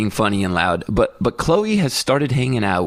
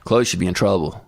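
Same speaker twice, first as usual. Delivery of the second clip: a lower, lightly voiced little boy tattling; snitching son; 5 semitones lower than usual. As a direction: tattle on your sister in a low voice. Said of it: "and he goes".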